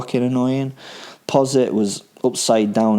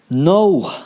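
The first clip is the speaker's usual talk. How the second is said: high, loud sudden "No"; sharp exclamation; 8 semitones higher, 6 dB louder than usual. A narrator's reading. Killer rebuking the crying woman, loud sharp no. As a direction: snap it out in anger. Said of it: "I exclaimed".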